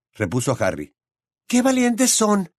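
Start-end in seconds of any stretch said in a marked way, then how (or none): 1.5-2.5 higher, slow, sighed in admiration; admiring sigh. Acted. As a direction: breathe it out in awe of their courage. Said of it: "suspiró Hermione con admiración".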